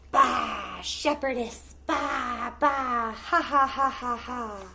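bleating, laughing sheep jeering; mocking sheep. Sheep mock Betsy.

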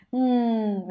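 "Ừm" hummed with the breath slightly held. Shown as a demonstration. Teacher shows students how to make the sound, slightly held breath. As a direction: hold back the air on "Ừm". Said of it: "hơi nín thở đúng không ạ".

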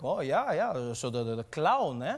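put-on dismissive dad, slight German accent; lightly voiced Swiss German father. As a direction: fumble for the word with a German accent. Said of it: "He's like".

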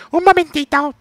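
very high, loud falsetto hold voice; operator voice. Retold or imitated. Mocking the gas company phone line in high falsetto. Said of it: "Y te dicen".

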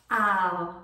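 put-on low, quiet old London accent. Partner's nan politely approving a name, London accent. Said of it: "trying to do a London accent".

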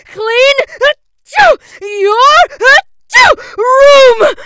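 loud order broken by sneezes; sneezing while shouting. A narrator's reading. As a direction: shout through big sneezes. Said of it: "the final result was something like".

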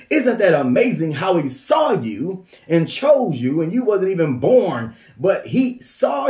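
rising, fervent call; preaching exclamation. Real, not acted. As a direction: proclaim it with wonder.

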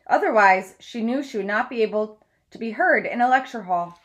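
steady read-aloud storytelling voice; story narration. Acted. Teacher reads biography aloud.

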